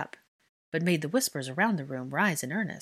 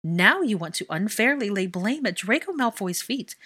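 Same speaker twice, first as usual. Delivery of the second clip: impassioned accusation; 3 semitones higher, 4 dB louder than usual. Acted. Hermione condemning the Wizengamot.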